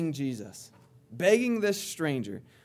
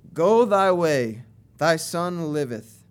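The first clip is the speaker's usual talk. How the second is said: commanding; 8 dB louder, slower than usual. Retold or imitated. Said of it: "Jesus saith unto him".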